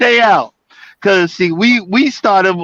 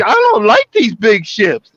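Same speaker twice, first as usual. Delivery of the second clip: retold complaint; 2 semitones higher than usual. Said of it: "I'm like".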